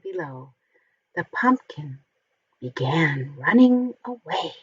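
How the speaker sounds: lively picture-book storytelling voice; reading to children. A narrator's reading. Reading a Halloween picture book aloud to children, animated storytelling. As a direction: read it like a bedtime story for little ones.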